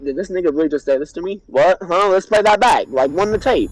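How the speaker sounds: disbelief. Retold or imitated. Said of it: "I'm in disbelief. I'm dumbfounded".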